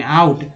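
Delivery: आउट opening on a clear आ; AA vowel. Shown as a demonstration. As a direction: model आउट, beginning with an open आ sound. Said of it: "आ के रूप में". (आउट की शुरुआत खुले आ से)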